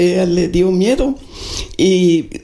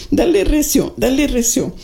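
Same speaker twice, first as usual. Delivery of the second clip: higher, pressing urgency; muy urgente; 5 semitones higher than usual. Retold or imitated. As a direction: hurry the driver on, insistent. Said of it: "muy urgente". (con urgencia, más agudo)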